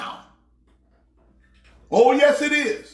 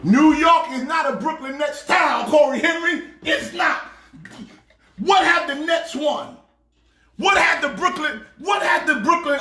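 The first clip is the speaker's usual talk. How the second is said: heated, higher-pitched rant; worked up; 3 semitones higher than usual. Real, not acted. Knicks fan disputing that New York is a Nets town, worked up. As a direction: argue indignantly, blood pressure up. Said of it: "You done got my blood pressure up".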